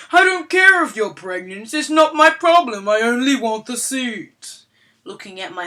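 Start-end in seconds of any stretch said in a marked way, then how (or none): 0.1-4.6 higher, louder condescending mom; loud entitled parent. Acted. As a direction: talk down to her like she's stupid. Entitled mom snaps at pregnant woman.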